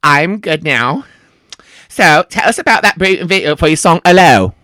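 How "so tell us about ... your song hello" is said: put-on slipping back into a British accent; low start, British accent landing hard on the last word; mimicked British accent. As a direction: copy the singer's British accent unawares. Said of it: "you're still doing it".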